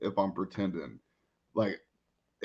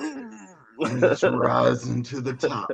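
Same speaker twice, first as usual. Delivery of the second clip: lightly hammed Hulk Hogan style promo; wrestling promo voice; slower than usual. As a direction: drawl out a wrestler's brag, a hint of Hogan. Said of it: "doing promos".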